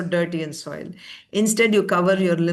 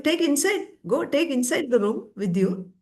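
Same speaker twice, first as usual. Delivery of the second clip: mildly exasperated mother, pitched up; mock angry order; 8 semitones higher than usual. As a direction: order the child indoors in a higher voice. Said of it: "That was in anger she said that".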